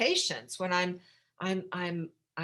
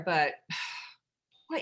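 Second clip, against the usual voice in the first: ordinary talk, nothing marked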